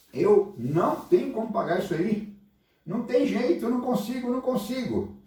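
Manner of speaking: high, pleading servant's plea; desperate pleading. Acted. Servant begging the king he cannot pay, high and desperate. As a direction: beg the king, voice rising high.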